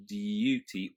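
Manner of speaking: "duty" as "dyooty"; y sound in "duty"; yod. Shown as a demonstration. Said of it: "a word like duty".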